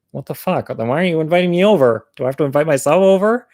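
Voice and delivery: comic indignation, rushing the questions; mock exasperation. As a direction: play up being mildly fed up. Acted exasperation at date's slowness.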